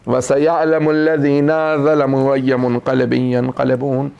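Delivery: low, steady supplication; closing prayer. Acted. Preacher leads the gathering in the closing dua, low steady prayer. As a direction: pray it out low and even.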